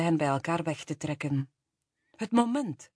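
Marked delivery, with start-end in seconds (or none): 2.2-2.9 high-pitched, lightly amused; mildly laughing. A narrator's reading. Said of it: "lachte Kate".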